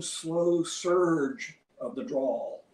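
very slow, stretched drawl. Shown as a demonstration. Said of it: "Kipling called it the long".

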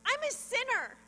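retold protest. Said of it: "I shook my head and I said".

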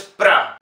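"pra" as a separate syllable with clear A. Shown as a demonstration. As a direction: sound out "pra". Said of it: "la primera O no está acentuada".

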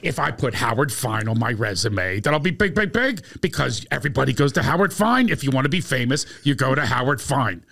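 lightly voiced eager classmate; imitating Bruce. Bruce telling Howard his reasons, earnest and eager. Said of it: "He goes".

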